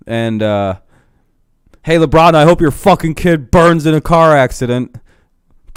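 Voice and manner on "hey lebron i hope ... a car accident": louder, mock venomous heckle; acted abusive heckle. Fan abusing LeBron about his kid, mock venomous heckle. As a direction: hurl it like an ugly courtside taunt.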